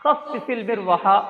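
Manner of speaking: each syllable drawn out for the class; slow teacher repeat. Shown as a demonstration. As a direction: say it slowly so students can copy. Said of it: "teacher repeats slowly".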